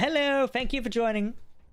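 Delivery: proper English gentleman voice. Thanking someone for joining: English gentleman voice. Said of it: "I sounded like an English gentleman there".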